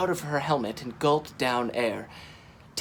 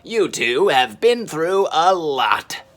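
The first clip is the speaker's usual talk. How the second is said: slow, kindly reassurance; gentle and slow; 2 semitones higher, 6 dB louder, slower than usual. A narrator's reading. Cripes comforting the tired pair, slow gentle voice. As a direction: soothe them. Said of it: "said Cripes gently".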